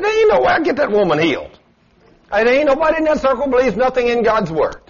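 high, loud and blunt refusal; forceful retort. Retold or imitated. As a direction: insist hard, no room for doubt. Preacher's blunt retort to husband.

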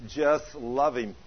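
slow, gentle divine words; voice of the Lord. Retold or imitated. Preacher repeating God's words to his wife, slow. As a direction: let the Lord speak slowly. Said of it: "He spoke to her audibly".

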